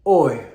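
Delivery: OI short and loud, dropping in pitch; second tone. Shown as a demonstration. Demonstrating second tone, OI loud, short and falling. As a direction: punch OI out with a quick fall. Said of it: "second tone".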